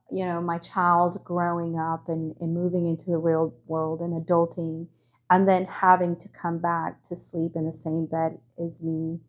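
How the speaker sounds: soft, pained, lump in the throat; quietly choked up, slowing as it hurts. Real, not acted. Mom of three sons feeling a parent's pain, softly choked up. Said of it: "I've got a lump in my throat".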